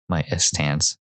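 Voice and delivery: Hispanic-accented "stance", with a vowel before the s; Hispanic accent slipping out. Real, not acted. Vlogger catching own Hispanic accent on "stance". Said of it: "my Hispanic accent is coming out".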